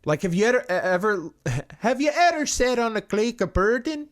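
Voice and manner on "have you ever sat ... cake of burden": laughing. Real, not acted. Laughing at her own slip.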